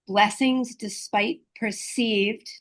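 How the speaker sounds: slow down and lean on perceived; stress on perceived. Shown as a demonstration. Reading out a definition of grace, slowed stress on perceived. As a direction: draw out perceived, slow and weighted. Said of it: "stress the word perceived".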